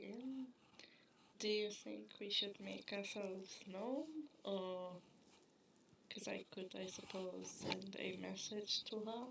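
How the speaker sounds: very quiet, softly spoken, hushed words. Voicing a character speaking to a companion while hiding near guards: speaking very quietly. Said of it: "just very quietly say".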